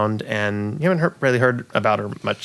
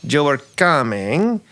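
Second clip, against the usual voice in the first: campy drag queen; 4 semitones higher than usual. Acted. NPC keeps talking.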